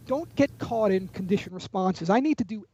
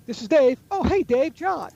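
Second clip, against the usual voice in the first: rising, questioning tune on every phrase, pitched up; questioning high inflection; 5 semitones higher, 4 dB louder than usual. Shown as a demonstration. Salesman demoing the weak upward-lilting phone greeting. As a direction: sound unsure, lift each phrase up like a question. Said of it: "You can hear that sort of questioning inflection going high".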